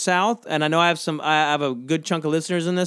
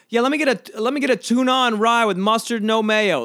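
mock yelled order; 5 semitones higher than usual. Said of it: "you can just yell at the person".

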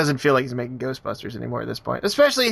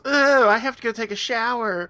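mock disgusted Mike; 8 semitones higher than usual. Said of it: "Mike just goes".

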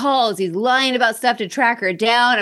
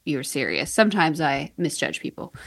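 soft smug salesman; 5 semitones lower, 4 dB quieter than usual. Retold or imitated. Repeating salesman line, softer.

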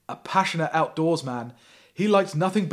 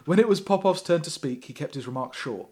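usual speaking voice

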